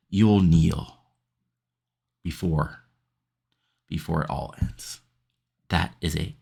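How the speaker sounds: low, ominous cult leader speech; menacing prophet promo. Acted. A cult leader threatening his rival, ominous and low.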